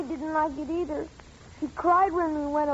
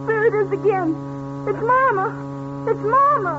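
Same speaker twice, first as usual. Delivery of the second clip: put-on frightened child; 5 semitones higher than usual. Children hear the organ again.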